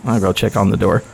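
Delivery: Brian voice. Acted. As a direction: drop into the character Brian. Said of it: "It's not what I sound like".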